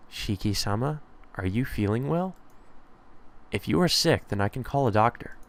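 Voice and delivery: soft, gently questioning maid; lightly voiced polite maid, concerned. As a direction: lightly play a concerned servant, softly.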